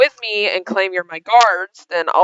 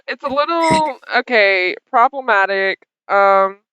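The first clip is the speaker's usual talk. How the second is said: halting, evasive stammer in character; awkward hesitation; slower than usual. Acted. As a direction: stall between words like someone caught out. Guilty characters stammer an answer.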